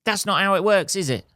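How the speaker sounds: heated justification. Retold or imitated. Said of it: "I was like".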